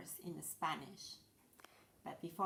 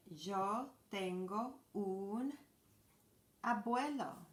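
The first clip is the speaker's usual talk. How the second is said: slow model sentence; 2 semitones higher, slower than usual. Shown as a demonstration. Teacher modeling grandpa in Spanish, slow and clear. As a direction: draw it out and raise abuelo. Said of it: "teacher models sentence".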